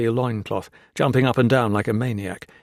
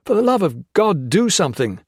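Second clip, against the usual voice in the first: higher, louder pleading; desperate; 8 semitones higher, 5 dB louder than usual. A narrator's reading. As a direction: beg for help, desperate. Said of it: "Hawkins desperately turned to him".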